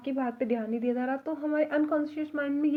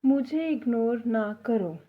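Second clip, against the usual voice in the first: slow, clear teacher read of मुझे इग्नोर ना करो; slow dictation; slower than usual. Shown as a demonstration. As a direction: spell it out slowly for learners. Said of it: "Hindi में हम बोलते हैं".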